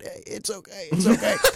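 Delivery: small, feeble, meek, weak, high voice. Retelling reassuring the dog's owners while in shock: imitating own meek, weak voice. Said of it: "I probably sounded so meek and weak".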